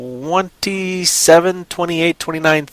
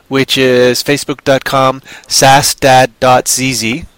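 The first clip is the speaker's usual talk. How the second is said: slow Canadian spelling out; Canadian accent; 4 dB louder, slower than usual. Pretend. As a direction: read the web address in a Canadian accent. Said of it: "I gotta talk like an American to say that".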